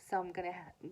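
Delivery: stumbling over a word; stutter. Real, not acted. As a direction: trip on the word and cut off. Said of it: "I'm stuttering here".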